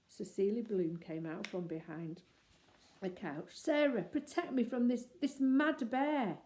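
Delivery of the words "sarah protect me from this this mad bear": high, loud pleading; mock terror, slowed at the end; hammed fear. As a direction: actor hamming up his fright. Actor feigns terror.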